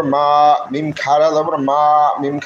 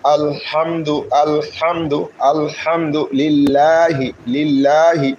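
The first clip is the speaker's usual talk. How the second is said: drawn-out chanted recitation, vowels held long; slow Quran recitation; much slower than usual. Shown as a demonstration. Teacher modelling the verse for learners, slow chant. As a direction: chant slowly, stretching the vowels.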